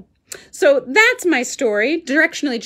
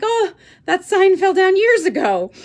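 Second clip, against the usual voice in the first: B&B owner voice; 7 semitones higher, 5 dB louder than usual. Retold or imitated. B&B owner quoted.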